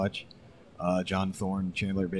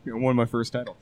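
laughing; 4 semitones higher, faster than usual. Real, not acted. Emotional laughter on title win.

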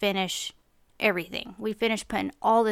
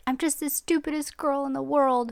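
higher-pitched mock-upset little girl; imitated crying child; 5 semitones higher than usual. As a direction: lightly voice a child's self-pity. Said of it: "and she's crying".

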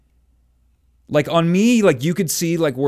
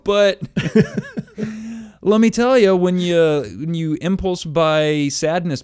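put-on wry older self; 5 semitones higher than usual. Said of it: "it's like".

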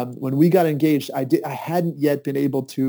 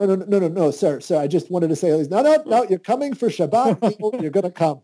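higher rapid no, no, no; insist, a bit flustered and amused; flustered protest; 5 semitones higher than usual. Retold or imitated. To the rabbi, flustered pitched-up protest.

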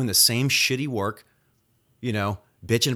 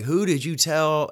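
mock angry demand; 5 semitones higher, 3 dB louder, slower than usual. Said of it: "like, all fucking mad".

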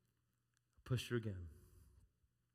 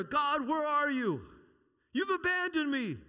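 high, slow cry to God; a touch of a mock lament; lightly voiced lament; 10 semitones higher, 4 dB louder than usual. Preacher voicing a doubter calling to God, mild lament. Acting out believer crying to God.

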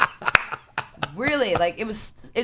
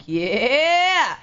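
excited yell; 6 semitones higher, 4 dB louder than usual. Retold or imitated. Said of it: "But I was like".

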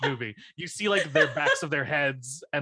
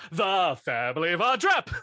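a grand contest announcer call, slightly raised; mock announcer; 3 semitones higher than usual. Friend re-enacting the contest result, mock announcer. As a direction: announce the winning family with a rising finish.

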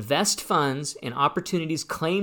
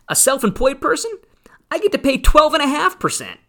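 fired up; 3 dB louder than usual. Real, not acted. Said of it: "I'm probably getting a little fired up".

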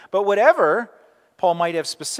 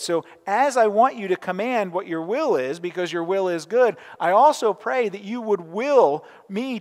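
earnest prayer; 3 semitones higher than usual. Retold or imitated. Preacher voicing Augustine's humble prayer, earnest and pleading. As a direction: pray it as a weak man leaning on God.

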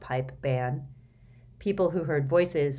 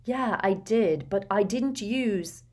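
angry; 4 semitones higher, slower than usual. Acted. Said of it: "Harry began angrily".

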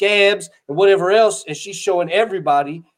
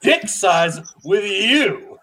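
laughing; much slower than usual. Real, not acted. Teasing co-host.

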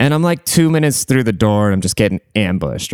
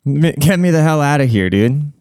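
mock exasperated, pitched way up; high-pitched exasperation; 7 semitones higher than usual. Giving up on the persistent stripper, high-pitched exasperation. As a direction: act out being done, voice jumping high. Acting out his exasperated exit.

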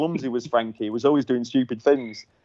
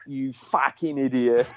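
slow Cockney swearing, lightly imitated; slow mock-Cockney telling-off; Cockney accent; slower than usual. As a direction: swear slowly like a Cockney boss. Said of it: "he's a proper, like, Cockney accent".

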